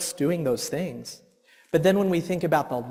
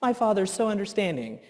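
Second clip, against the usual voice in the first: softer, gently mock-saintly; patient dad; 7 dB quieter than usual. Dreaming of being the ideal dad, soft and gentle. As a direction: soothe like an ideal patient father. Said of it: "I wanna be that dad".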